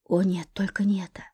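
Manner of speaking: breathless dread under the breath; whispered dismay. Acted. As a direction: whisper it, terrified. Anika dreads the revelation.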